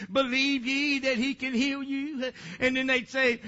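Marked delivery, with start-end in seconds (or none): 0.1-2.3 child imitating preacher. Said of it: "look 'em in the face like I do".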